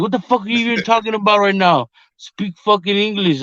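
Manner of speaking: high-pitched mimicry of a fed-up partner; retold exasperation. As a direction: imitate her snapping back in confusion. Acted baffled partner's reply.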